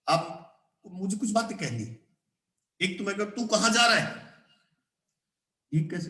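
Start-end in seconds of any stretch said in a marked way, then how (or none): 3.3-4.3 blunt, informal question; rude. Shown as a demonstration. Teacher contrasts rude and polite ways of asking, rude. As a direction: ask it bluntly, without courtesy. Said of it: "rude भाषा में कह रहे हैं".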